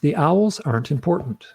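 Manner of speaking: measured, carefully articulated declaration; very clear. Retold or imitated. Repeating what he told his hypnotherapist, very clearly articulated. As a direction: enunciate each word with calm certainty. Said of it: "I speak very clearly".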